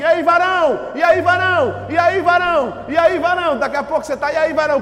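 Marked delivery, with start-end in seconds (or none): 0.0-3.6 loud, high hailing greeting on a loop; mimicked brotherly greeting. Mimics another man's church greeting. 4.3-4.8 loud, high imitated hail; parroted brotherly greeting. Acts listener parroting the greeting.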